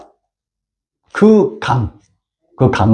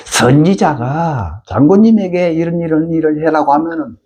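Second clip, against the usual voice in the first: servant pleading. Retold or imitated. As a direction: urge him gently but firmly. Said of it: "자기 종들이 얘기를 해요".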